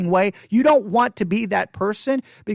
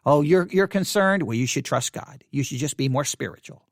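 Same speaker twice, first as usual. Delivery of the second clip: mock pious condescension, dropping lower; condescending; 5 semitones lower than usual. Imitating a smug believer to someone concerned, condescending. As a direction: talk down as the more spiritual one. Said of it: "difference in tone in the way some people are saying it".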